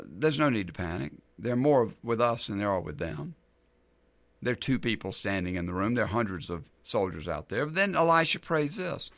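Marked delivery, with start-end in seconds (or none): 0.0-7.7 calm, low-key prophet reassuring. Acted. Prophet to his panicked servant, very calmly. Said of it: "Elisha very calmly says".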